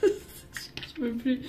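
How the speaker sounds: high breathless giggle, slow and drawn out; words melting into laughter; laughing. Real, not acted. Reading cards to viewers, giggling through it. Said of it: "J'en peux plus".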